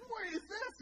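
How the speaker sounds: high-pitched mock British-kid voice; British accent. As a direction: imitate an astonished little British kid, high voice. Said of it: "he's got the British accent".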